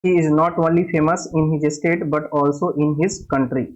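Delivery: each word spelled out slowly for the class; slow dictation. Shown as a demonstration. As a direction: read the example slowly and clearly. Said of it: "जैसे देखिए example". (धीमे-धीमे उदाहरण पढ़ना)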